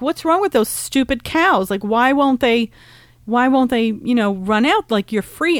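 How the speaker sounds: mildly angry characters. Retold or imitated. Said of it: "they were so angry".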